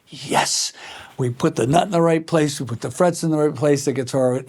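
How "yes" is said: breathy hushed yes; whispered yes. Retold or imitated. Builder's hushed private yes at the session players' reason. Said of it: "I was like".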